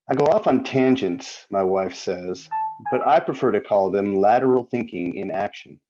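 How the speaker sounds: measured poem recital with pauses between lines; poetry reading. Acted. Poet reading his wry poem to an audience, poetry reading. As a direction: read it as verse, phrase by phrase. Reads own poem aloud.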